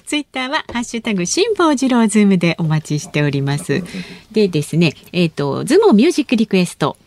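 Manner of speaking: crisp on-air info read; radio announcement read. Acted. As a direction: read the address like a station notice. Reads contact info and request.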